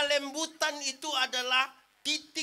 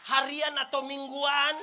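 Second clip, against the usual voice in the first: laughing shout; 5 dB louder, slower than usual. Real, not acted. Joking question to congregation.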